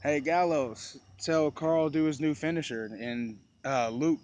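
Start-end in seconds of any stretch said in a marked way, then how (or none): 0.0-2.9 mild mock yell to a wrestler; lightly raised calling-out voice; retold yell. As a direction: retell your shout at ringside, half-strength. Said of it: "I yell out to".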